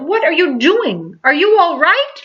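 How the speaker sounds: high, loud anxious calling; worried yell. Acted. Child calling to Mister Carp underwater, high worried shout. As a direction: shout down into the pool. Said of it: "I yelled".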